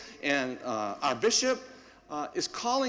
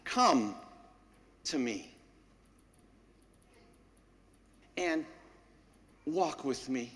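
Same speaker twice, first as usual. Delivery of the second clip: calling voice; 3 semitones lower, 4 dB quieter, slower than usual. Retold or imitated. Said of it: "the voice calling us".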